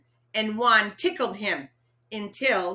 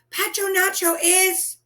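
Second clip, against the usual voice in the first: urgent panic; 11 semitones higher, 6 dB louder than usual. Acted. Panicked child trying to tell.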